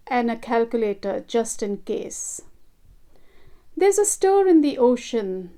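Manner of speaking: measured, lilting poetry reading; poem recitation. Acted. Artist recites her ocean poem to viewers, gentle poetic reading. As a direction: read it like a heartfelt poem to an audience.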